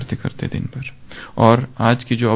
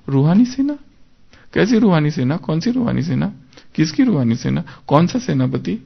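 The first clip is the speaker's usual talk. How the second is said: higher, puzzled questions piling up; curious wonder; 4 semitones higher than usual. Pretend. Reader questioning the murli line with curious wonder. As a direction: quiz yourself with surprise on each line.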